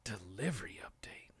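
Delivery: hushed, low near-whisper; soft, low reading to oneself; murmuring to self. Real, not acted. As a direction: mutter it under your breath while reading. Muttering while checking email.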